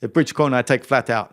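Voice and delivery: a hint of a German accent. Champion driver repeating his corner tip, light German accent. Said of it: "That's my German accent".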